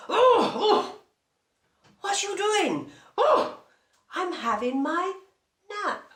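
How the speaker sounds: high, loud cross hippo voice, just woken; grumpy hippo woken up. Acted. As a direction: squeal it like a hippo startled from a nap. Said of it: "was not very happy".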